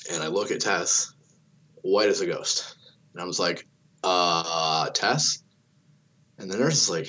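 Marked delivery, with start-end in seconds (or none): 4.0-5.4 drawn-out hesitation, then a rising questioning name; worried check. Retold or imitated. Dad seeing Tess white as a ghost, uneasy.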